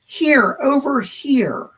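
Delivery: lightly imitated call for attention, stretched out; relayed calling out. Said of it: "I've been shouting his name".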